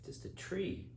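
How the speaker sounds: very low, soft dopey tree; quiet, puzzled tree voice; talking tree. Acted. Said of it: "And the tree says".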